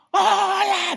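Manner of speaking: high, loud cheerful shout of hello; friendly hello. Acted. A passer-by calls out to you, high cheerful hello. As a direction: call out a bright greeting across the street. Someone greeting you on the street.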